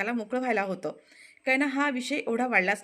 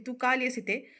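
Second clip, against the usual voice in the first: raised, accusing scold, pitch climbing at the end; angry scolding; 3 semitones higher than usual. Acted. Shilpa scolding Anandi at the door, angry. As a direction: tell her off sharply. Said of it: "Shilpa तिच्यावर चिडते".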